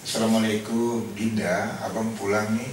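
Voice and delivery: a mildly tender husband coming home; sweet greeting. Pretend. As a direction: greet your wife fondly at the door. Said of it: "Anda coba merubah cara bertutur". (suami menyapa istri dengan lembut)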